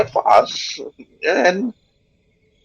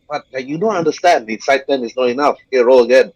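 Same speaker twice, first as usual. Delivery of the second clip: wolf voice; faster than usual. Acted. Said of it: "It's trying to explain".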